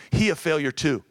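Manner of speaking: lightly imitated thick Asian accent; thick heavy accent. Quoting the Asian woman at church about her husband, in a thick accent. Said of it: "with a thick, heavy accent".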